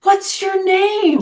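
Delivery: put-on slow, high old-man question; kindly old man. Old man gently asking the drunk his name, slow and high. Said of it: "he goes".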